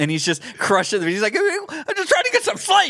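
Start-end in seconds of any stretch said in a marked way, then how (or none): 1.3-2.9 very high, irritated, agitated and animated. Praising a comic's physical humor, the speaker quotes him: imitating irritated, agitated voice. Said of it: "he just gets so irritated and agitated and animated".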